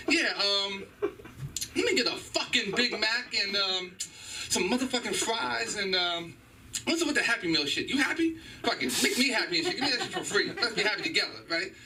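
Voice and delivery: cussing customer. Pretend. Cussing McDonald's order acted out.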